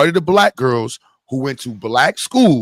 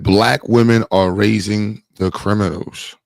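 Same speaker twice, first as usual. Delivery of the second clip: mock quote; 5 semitones lower than usual. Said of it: "She said".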